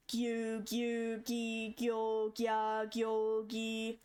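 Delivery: "gyu", "gyo" and "gya" said as single crisp syllables; Japanese syllables. Shown as a demonstration. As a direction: sound out each g-syllable. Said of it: "it'd be like".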